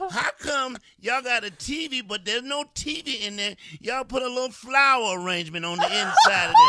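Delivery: laughing mock question.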